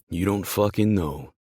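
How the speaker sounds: mildly heated challenge; voice rising. Acted. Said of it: "my voice rising".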